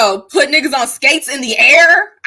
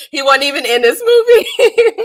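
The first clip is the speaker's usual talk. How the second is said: laughing; 4 semitones higher than usual. Real, not acted. Laughing at own off-topic roast.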